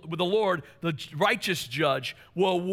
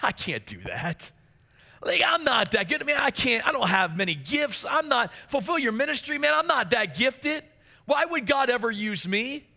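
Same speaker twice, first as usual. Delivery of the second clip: doubtful self-talk; 4 semitones higher than usual. Retold or imitated. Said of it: "most of us will say".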